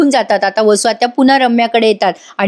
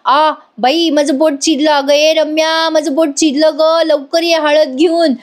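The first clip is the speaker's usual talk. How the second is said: mock cry of pain; 5 semitones higher, slower than usual. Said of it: "मोठ्याने ओरडतात".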